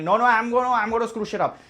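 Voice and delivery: loud, high gleeful villain. Retold or imitated. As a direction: taunt like a cartoon villain.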